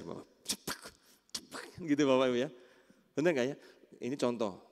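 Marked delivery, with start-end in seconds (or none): 0.4-1.6 mimicked smack noises; short percussive mouth noises; imitated slap. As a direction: make quick slapping sound effects. Acts out hitting as the method.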